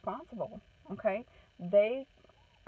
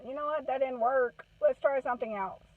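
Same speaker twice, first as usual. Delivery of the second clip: upbeat suggestion; 4 semitones higher, 4 dB louder than usual. Shown as a demonstration. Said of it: "Is being able to tell your child".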